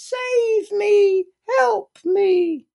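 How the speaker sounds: high, loud plea for rescue; pleading victim. Shown as a demonstration. Victim's favourite line in the drama triangle, high loud plea. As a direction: beg like a helpless victim. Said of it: "their favourite byline is".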